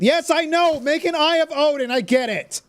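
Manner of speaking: fed up with being told again; exasperated outburst. Real, not acted. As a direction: shout back at the nagging hint. Snapping at nagging game hint.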